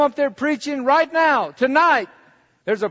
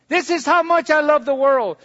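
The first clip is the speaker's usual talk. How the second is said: building proclamation; 4 semitones higher than usual. Acted. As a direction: swell it up for the congregation. Repeat built up louder.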